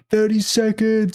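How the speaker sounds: mild tough-guy quote, drawn out; imitating Jason Statham. Friend quoting Statham to friend, lightly voiced and slow. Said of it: "Jason Statham going".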